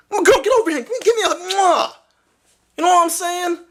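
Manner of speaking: high playful beckoning voice; 1 playful high calling. Pretend. Vlogger playacting calling his girlfriend over for a kiss. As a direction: call her in for a kiss, up high.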